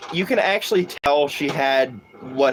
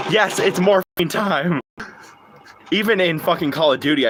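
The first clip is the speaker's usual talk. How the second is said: ordinary delivery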